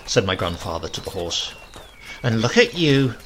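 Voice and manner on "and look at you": a sudden mild exclamation; grandmother, startled and scolding. A narrator's reading. Grandmother scolding grandfather's collar, sudden exclamation. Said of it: "exclaimed my grandmother suddenly".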